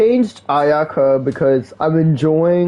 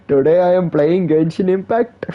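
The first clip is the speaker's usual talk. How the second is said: a light hint of a mock Indian accent; half-hearted Indian streamer line; 3 semitones higher than usual. Replaying the streamer intro, lightly in a mock Indian accent. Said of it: "Now you speak like Indian?".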